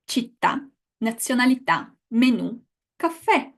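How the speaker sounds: each of "città, nazionalità, menu, caffè" stressed on its last vowel; final-vowel stress. Shown as a demonstration. Teacher reviews words with accent signs, stress on final vowels. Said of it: "that's where you put the stress".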